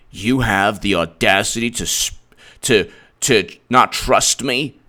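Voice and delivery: a wife blasting her husband for his nerve; outraged wife. Retold or imitated. Wife who opened the bedroom door scolds husband, hammed-up fury. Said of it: "And she's like".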